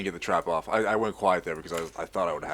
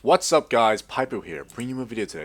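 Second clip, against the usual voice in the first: slower, measured channel intro. Shown as a demonstration. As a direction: take the greeting a little slower. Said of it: "work on just saying that slower".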